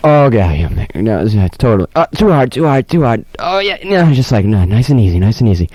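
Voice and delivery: lightly voiced massage talk; a hint of relaxed mumbling under a massage; mock back-rub chatter. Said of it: "Those are the types of noises".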